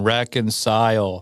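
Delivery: "Reconcile" slowly as REC-con-sile; "Reconcile" as REC-con-sile, slow and clear; coaching pronunciation. Shown as a demonstration. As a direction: draw out "Reconcile" syllable by syllable for a learner. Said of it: "One more time, old man".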